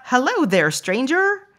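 a hint of an old movie cowboy drawl; fifties cowboy. Shown as a demonstration. Greeting a stranger like a fifties film cowboy, lightly voiced. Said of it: "I sounded like some fifties movie cowboy".

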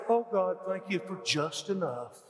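slow, meek, half-mocking prayer; mock poverty prayer, slowed and pleading; timid little prayer. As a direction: drag it out like a pitiful plea. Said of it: "They're not saying".

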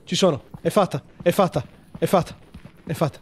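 ordinary delivery

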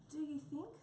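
high, hesitant little voice; nervous. Acted. Mouse asks Wombat about lion taming, nervous and high. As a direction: ask timidly, unsure of yourself. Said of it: "said Mouse nervously".

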